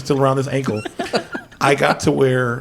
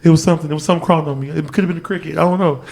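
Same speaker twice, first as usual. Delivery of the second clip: higher, louder panicked rambling; retold freak-out; 5 semitones higher, 5 dB louder, faster than usual. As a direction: re-enact freaking out over a possible bite. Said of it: "I'm fucking freaking out".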